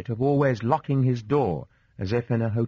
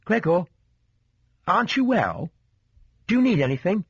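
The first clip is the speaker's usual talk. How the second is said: put-on high, girlish sisterly concern; light, high-pitched, concerned questioning; sister softly calling; 8 semitones higher than usual. A narrator's reading. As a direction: ask in a high sister's voice through the door. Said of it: "the young man's sister softly called".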